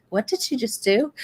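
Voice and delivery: laughing in disbelief. Real, not acted. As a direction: giggle through the question. Laughing at what she heard.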